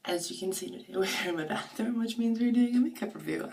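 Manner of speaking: hoarse, just-woke-up voice; groggy morning voice, sore throat. Real, not acted. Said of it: "my voice is really groggy".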